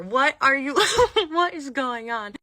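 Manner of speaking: high, loud, incredulous laugh-talk; laughing disbelief. Retold or imitated. Staff laughing at the accusation.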